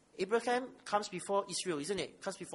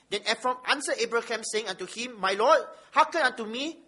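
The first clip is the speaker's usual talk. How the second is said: measured public reading of holy text; scripture reading; 2 semitones higher, 5 dB louder than usual. Acted. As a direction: read it out firmly to the congregation, weighting key words. Reads scripture aloud.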